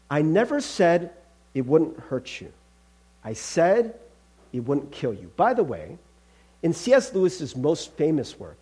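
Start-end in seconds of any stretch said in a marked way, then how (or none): 0.1-5.3 measured, falling angel voice; calm angel. Acted. Angel reassuring the ghost about dying, calm and firm. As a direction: answer evenly, pausing between phrases.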